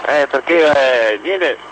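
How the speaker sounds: caller on a phone line; thin telephone sound; over the phone. Real, not acted. Caller phones into radio show.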